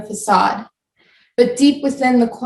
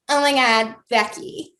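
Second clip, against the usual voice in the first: put-on bubbly valley girl Oh my God, Becky. Shown as a demonstration. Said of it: "That kind of bubbly Valley Girl voice".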